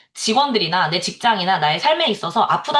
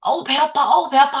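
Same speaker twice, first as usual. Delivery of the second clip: mock complaining; 4 semitones higher than usual. Shown as a demonstration. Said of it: "하면 아파져요".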